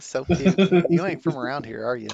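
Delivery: lightly put-on Southern accent; a hint of a local Southerner teasing. GM plays a local eyeing a stranger, lightly Southern. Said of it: "talking like this".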